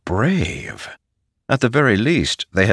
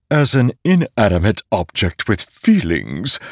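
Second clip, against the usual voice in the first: higher, louder living sword voice; ringing metallic sword voice; 5 semitones higher, 3 dB louder than usual. A narrator's reading. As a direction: voice a talking magic sword. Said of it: "the sword said from Szeth's back".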